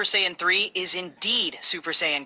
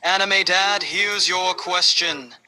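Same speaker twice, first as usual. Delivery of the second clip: deep dramatic voice. Acted. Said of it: "In a deep, dramatic voice".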